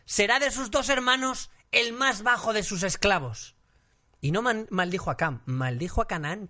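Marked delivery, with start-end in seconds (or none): 0.0-3.6 slow, high, solemn proclamation; solemn curse. Acted. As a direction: pronounce the curse slowly and gravely. Reading Noah's curse.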